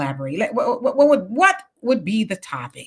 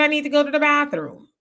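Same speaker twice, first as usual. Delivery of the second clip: asking teacher; 5 semitones higher than usual. Retold or imitated. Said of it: "And I said".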